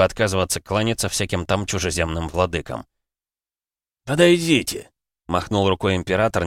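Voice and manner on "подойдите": emperor's calm command. A narrator's reading. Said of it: "не повышая голоса".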